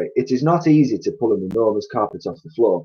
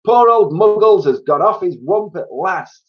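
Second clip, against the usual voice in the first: high, loud, drawn-out lament; bird's cry; 10 semitones higher, 6 dB louder than usual. A narrator's reading. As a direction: squawk it slowly and grandly. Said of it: "cried the roly-poly bird".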